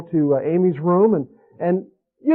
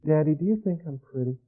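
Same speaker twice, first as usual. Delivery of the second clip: put-on shy little girl; 6 dB quieter than usual. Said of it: "with a voice change and tone and the mood".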